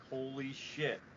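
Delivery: slow, drawn-out awe; mildly acted slow astonishment; retold amazement. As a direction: stretch it out as if stunned. Retold amazement at repeated pulse.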